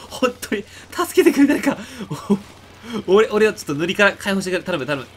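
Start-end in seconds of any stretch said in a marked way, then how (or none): 0.1-1.8 laughing plea. Real, not acted. Begging teammates for help.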